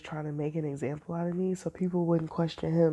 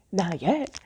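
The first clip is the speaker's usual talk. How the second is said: whispered threat. Retold or imitated. Boss's curt retold reply.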